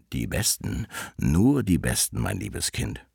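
a hint of a scheming wolf, dropping low at the end; sly wolf. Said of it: "hatte böse Gedanken dabei".

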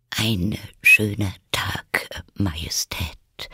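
slow, feeble half-whisper; faint, weak voice. A narrator's reading. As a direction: greet timidly, voice failing before royalty. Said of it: "mit leiser, schwacher Stimme". (mit leiser, schwacher Stimme)

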